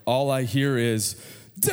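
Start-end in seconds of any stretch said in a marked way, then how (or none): 1.6-1.7 a son's loud call of Dad, retold; retold shout of Dad. Son calling for his father across the store, retold loud call. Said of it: "and he is loud".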